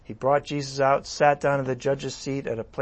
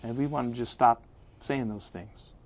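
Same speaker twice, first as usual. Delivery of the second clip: voicing the crowd; 4 semitones lower, 10 dB quieter than usual. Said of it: "'Cause we said".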